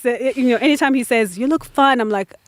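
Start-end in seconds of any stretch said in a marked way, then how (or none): 1.4-2.0 imitating a husband's tactful compliment, slightly higher; imitated polite remark. Quoting her husband's polite hint about her weight, lightly imitated. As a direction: pass on a polite compliment in his words. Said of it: "his polite way of saying".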